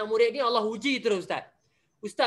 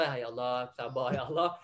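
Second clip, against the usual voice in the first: quiet patient prayer; 10 semitones lower, 6 dB quieter than usual. Retold or imitated. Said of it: "Ustaz pun".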